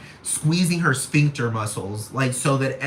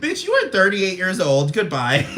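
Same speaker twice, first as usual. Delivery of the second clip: laughing dismissal; 2 semitones higher than usual. Retold or imitated. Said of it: "they'd be like".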